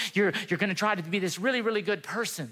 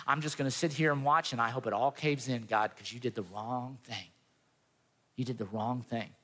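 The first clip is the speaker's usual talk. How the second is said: pity party; 5 semitones lower than usual. Retold or imitated. Jonah sulking at God like a little kid, mock pity party. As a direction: imitate a sulker, voice dropping away by the end. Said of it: "has his own little pity party".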